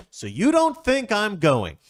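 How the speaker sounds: high, slow, indignant disbelief; Jeffrey asking if he's left behind, high and hurt; offended Jeffrey. Acted. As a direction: act wounded and outraged.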